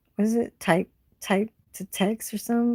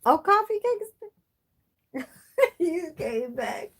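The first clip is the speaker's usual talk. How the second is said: excited greeting; 10 semitones higher than usual. Real, not acted.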